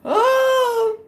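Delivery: high wailing oh Lord; crying out. Real, not acted. Mom overhears, high wailing cry.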